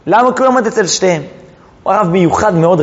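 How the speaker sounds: ordinary talk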